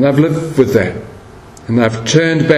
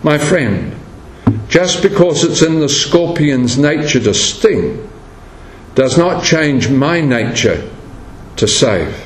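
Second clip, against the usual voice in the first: calm reply. Retold or imitated. Old man answering the passer-by, calm reply. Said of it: "The old man calmly replied".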